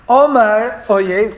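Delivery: Omar oyev stretched out very slowly, syllable by syllable; drawn-out quote. Shown as a demonstration. Preacher dwelling slowly on the verse. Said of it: "Omar oyev erdof asik achalik shalom".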